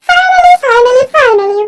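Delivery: excited cheer. Real, not acted. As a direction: celebrate like you finally made it. Creator celebrates finishing the video.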